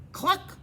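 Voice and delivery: mock hen cluck; high cluck. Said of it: "said the hens".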